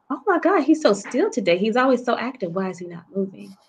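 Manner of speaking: sudden high, alarmed gasp of a voice; mild retold alarm rising to worry; alarmed cry. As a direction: relive the panic as the baby lies still. Mother alarmed at still ultrasound.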